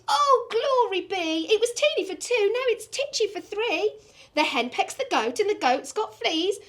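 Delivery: put-on high, fretful little old lady. Old lady crying to the wise old man for help. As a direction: wail it like a flustered old lady.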